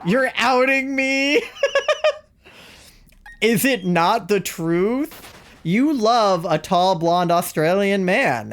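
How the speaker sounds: high, laughing, mock outrage; laughing squeal. Real, not acted. Friend outs her crush.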